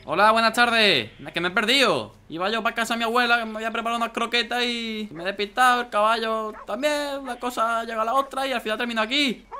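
lightly voiced sweet innocent stranger; mock innocent. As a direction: play the lost innocent. Innocent excuse to villagers. (inocente fingido con voz algo más aguda)

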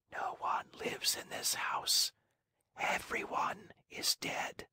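barely audible, as if already gone; whispered. Acted. Azure-haired maiden whispers to Pinocchio from the window, faint whisper. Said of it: "she whispered".

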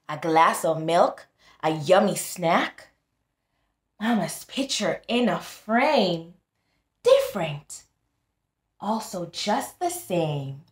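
put-on sing-song read-aloud for kids; storybook reading. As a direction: read it like a bedtime rhyme. Reading picture book aloud.

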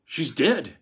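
unbelieving. A narrator's reading. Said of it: "he said unbelievingly".

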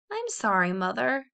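croaky hoarse voice with a cold. Acted. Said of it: "croaked Caddy hoarsely".

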